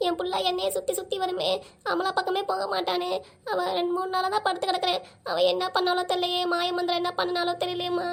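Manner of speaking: mildly weepy, droning complaint; tearful lament. Acted. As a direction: grieve over a son who ignores you, half crying. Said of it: "ஏன் அழுதுட்டு இருக்க?". (அழுகை கலந்த புலம்பல்)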